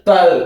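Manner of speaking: ட்வெல் as one loud syllable, quick t into "wel"; light t. Shown as a demonstration. Teacher modelling the blend for students, ட்வெல் with light t. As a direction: punch out ட்வெல் with no vowel before the t. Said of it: "இட்டோட sound லைட்டா இருக்கு".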